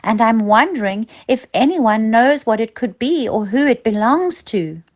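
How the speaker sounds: put-on a small boy asking his teachers politely; polite child asking. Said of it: "and he said".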